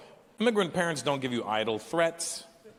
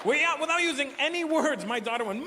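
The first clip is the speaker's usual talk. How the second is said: ordinary talk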